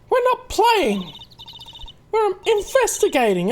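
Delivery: a girl protesting she isn't playing; high indignant girl. Girl correcting the policeman, high and indignant.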